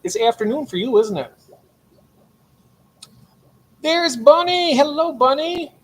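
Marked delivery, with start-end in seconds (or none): 3.8-5.7 much higher, louder, delighted hello; excited greeting. Real, not acted. Streamer greets Bunny arriving in chat, excited and much higher. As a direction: sing out a happy welcome to a friend.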